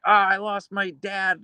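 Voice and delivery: high, slow, hammed-up sorrow; mock mournful chatter. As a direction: drag it out like a fake sob story. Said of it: "Someone's like".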